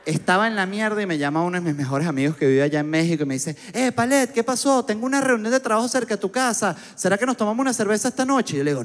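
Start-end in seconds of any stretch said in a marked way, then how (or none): 3.7-8.5 higher, bright-voiced friend calling to invite; upbeat friend. Friend invites him for a beer, cheerful higher voice.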